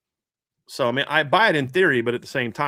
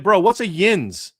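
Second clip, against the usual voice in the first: baffled question; 6 semitones higher, 4 dB louder, slower than usual. Retold or imitated. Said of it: "I'm like".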